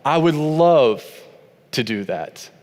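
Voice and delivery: slow, eager, openly willing; glad willing yes. Retold or imitated. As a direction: offer it as a gift, gladly. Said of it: "This is how he says to respond".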